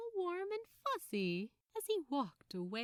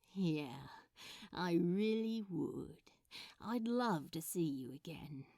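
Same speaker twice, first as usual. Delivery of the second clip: hopeless fondness; 3 semitones lower than usual. Acted. Crowley whispering back to Aziraphale, openly smitten. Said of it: "not even trying to keep the hopeless fondness out".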